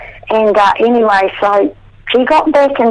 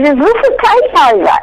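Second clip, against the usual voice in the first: higher mock yell; retold yell; 7 semitones higher than usual. Teasing the husband across the ward, higher mock yell. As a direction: toss it out as a teasing shout. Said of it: "And I yelled it out".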